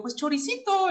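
sheepish. Retold or imitated. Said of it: "Le digo".

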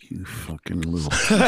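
low, tight-lipped dad impression; mad dad. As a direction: imitate an angry dad talking like a ventriloquist. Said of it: "this how my dad used to talk".

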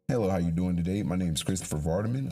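formal, proper introduction voice; code-switched proper voice. Shown as a demonstration. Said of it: "if I code switch".

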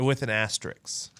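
asterisk ending in an X sound; two-syllable asterisk with -ks on the end; asterisk as astricks. Real, not acted. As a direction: say asterisk as "AS-tricks". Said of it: "Well, I say my, uh, C Ks with as an X".

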